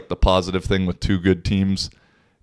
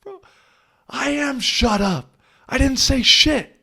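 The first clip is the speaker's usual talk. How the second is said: high, exasperated mock protest, drawn out; indignant protest; 3 dB louder than usual. Player talking back to the ref, high incredulous protest. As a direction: play it incredulous and offended. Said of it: "And I was like".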